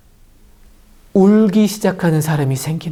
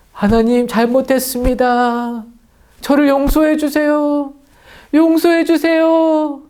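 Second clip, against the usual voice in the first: higher, slow pleading prayer; pleading for forgiveness; 6 semitones higher than usual. Acted. Repentant people crying out to God, slow high plea. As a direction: beg God to forgive, drawing it out. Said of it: "하면서 울기 시작합니다".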